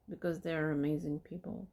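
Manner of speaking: dry, understated sarcasm; deadpan mock praise; sarcastic. Real, not acted. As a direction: say the praise with quiet irony. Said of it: "Just being sarcastic".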